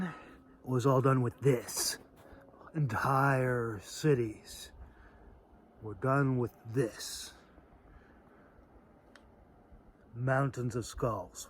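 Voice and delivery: slow, hushed whisper for the grim part; dramatic whisper. Real, not acted. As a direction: lean in and whisper it like a dark secret. Grim point about ancient slaughter.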